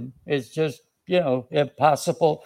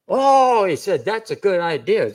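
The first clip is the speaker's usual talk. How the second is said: high, louder "oh" of pleased discovery; delighted schemer; 5 semitones higher, 4 dB louder than usual. Acted. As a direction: act out jumping at an idea. Voices Haman liking the plot.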